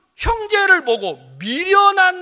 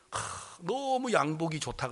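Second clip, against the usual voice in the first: hushed, drawn-out gushing; soft admiration; 4 semitones lower, 11 dB quieter than usual. Retold or imitated. Preacher fondling a colleague's suit, softly admiring. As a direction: sigh it slowly, savouring the compliment.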